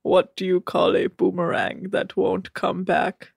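stiff, measured deadpan riddle; Rob. Retold or imitated. Host as Rob telling another joke, deadpan. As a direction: ask it evenly in a put-on monotone. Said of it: "What's that, Rob?".

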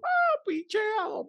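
slow, very high drawn exclamation; high mock squeal. Real, not acted. Friend mocking the date's love plea, high squeal.

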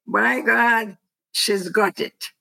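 put-on mother's line redone in a stronger English accent. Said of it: "With an English accent, yes".

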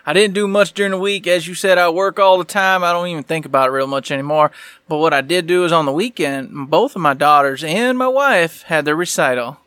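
put-on hillbilly Southern voice; Southern accent. Co-host recapping his week to his buddy, Southern accent. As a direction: lay on a folksy Southern twang. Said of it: "We're not doing Southern the whole show".

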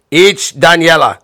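put-on slow, loud Italian-accented announcement right in his face; Italian-accented host. TV host right in Bob's face, slow Italian-accented taunt. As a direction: say it in an Italian accent like news he can't escape. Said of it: "like that, right up to poor old Bob's face".

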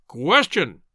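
loud heckling bellow; booming interjection. Acted. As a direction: boom it out, a bull's bellow. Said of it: "boomed the voice once more".

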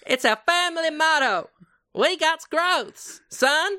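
put-on Southern accent. Gummidge declaiming the family motto.

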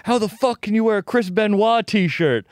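imitating an indignant yell, high-pitched; mock-yell it like an outraged stranger; retold yelling. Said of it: "this dude starts yelling at me".

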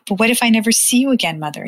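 put-on a boy's rushed fear; anxious child asking. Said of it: "he asked".

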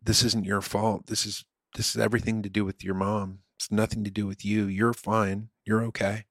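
put-on calm the kid down quietly; softly telling a stranger's daughter it's not her fault; reassuring a child. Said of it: "go to the girl and go".

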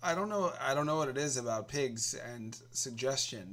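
ordinary talk

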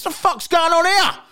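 high, drawn-out indignant outburst; mock outrage. Teller mocking an interrupted man in the toilet, mock outrage. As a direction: cry out in exaggerated disbelief, stretching the words.

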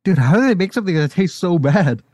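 laughing in disgust; laughing through the words. Real, not acted. Gross jelly bean, both laughing.

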